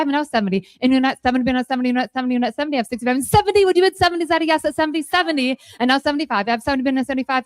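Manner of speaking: rapid rhythmic auction chant; auctioneer. Acted. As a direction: rattle off bids like an auctioneer. Auction chant during live auction.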